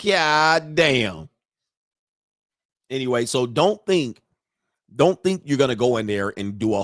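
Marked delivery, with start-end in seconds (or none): 0.0-1.3 drawn-out "God damn"; retold dismay, stretching both words; stunned reaction. Litigant reacting to losing his case, dismayed. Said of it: "And I was like".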